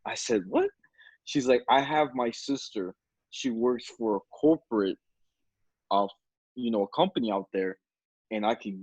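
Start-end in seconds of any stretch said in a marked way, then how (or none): none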